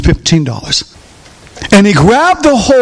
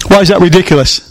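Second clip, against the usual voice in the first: ordinary talk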